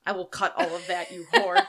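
laughing through a mock threat; giggly teasing threat. Real, not acted.

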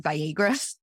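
Viagra with long, rounded Minnesota vowels; Minnesota accent. Retold or imitated. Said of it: "a Minnesota accent".

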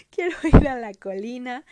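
loud mock wail of a child; wailing Heidi. Heidi begs for the hill, loud mock wail. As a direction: cry out like a homesick girl, hammed up. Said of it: "Heidi empieza a decir".

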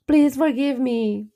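giggling, slow apology; laughing apology. Real, not acted. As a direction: laugh while asking forgiveness. Apologises while laughing at herself.

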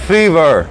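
"fever" ending in half-closed "er". Shown as a demonstration. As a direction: model "fever" with an R-coloured "er" ending. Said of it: "la posición de la lengua parecido al er".

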